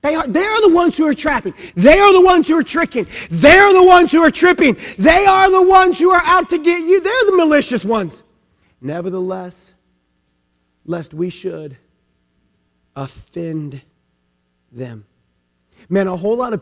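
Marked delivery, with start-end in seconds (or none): 0.0-8.2 higher, louder, fast; preaching at full force. Acted. Pastor rousing the congregation with a full preach. 8.8-15.1 fading softer and lower to near silence; gentle tone. Shown as a demonstration. Pastor voicing Christ's restraint, softly fading. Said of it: "Listen to Christ's tone".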